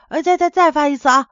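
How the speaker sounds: a nervous husband stumbling over his words; stammering. A narrator's reading. Husband begs his angry wife for another try, stammering. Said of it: "结结巴巴地说".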